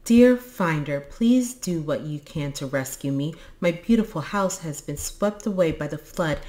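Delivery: letter read out loud; emphatic opening, settling into measured reading; reading aloud. A narrator's reading. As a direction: read a plea for rescue aloud. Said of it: "read out loud".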